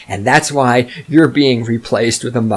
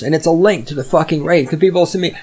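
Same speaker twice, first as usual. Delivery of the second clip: ordinary delivery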